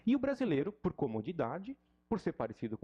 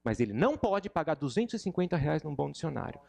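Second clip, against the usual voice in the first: heated rant; 5 dB louder than usual. Real, not acted. Ranting about dictionaries.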